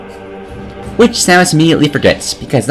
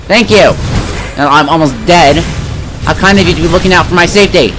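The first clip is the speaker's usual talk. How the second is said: sarcastic thanks; 3 semitones higher than usual. Acted. Almost dead, thanking Adam for nothing, sarcastic. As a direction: thank him pointedly while in trouble.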